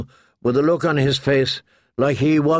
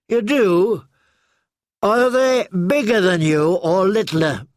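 put-on higher eager boy's question; Hot Pie pestering Arya with a higher eager voice; curious boy; 6 semitones higher than usual. A narrator's reading. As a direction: lift it up, keen to know.

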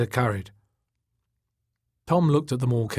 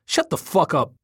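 higher, annoyed outburst; pissed off; 6 semitones higher, 4 dB louder than usual. A narrator's reading. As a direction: tell a laughing friend off. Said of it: "He was getting pissed off".

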